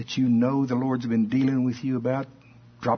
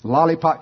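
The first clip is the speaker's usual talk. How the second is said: LOLLIPOP said louder and higher, confirmed; stressed lollipop; 4 semitones higher, 5 dB louder than usual. Real, not acted. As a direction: land on "Lollipop" firmly. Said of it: "I knew that wasn't right".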